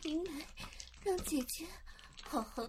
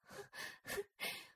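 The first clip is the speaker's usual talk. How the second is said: soft breathy laugh; 6 dB quieter than usual. Acted. Aroused sister laughs softly.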